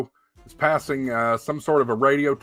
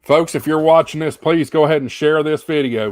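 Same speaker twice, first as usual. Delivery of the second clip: urgent appeal; 2 semitones higher, 6 dB louder than usual. Real, not acted.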